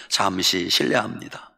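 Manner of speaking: low-pitched standard Seoul Korean. Shown as a demonstration. Preacher repeats the model phrase, in standard Korean. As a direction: give the formal standard Korean version. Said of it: "이게 표준말이요".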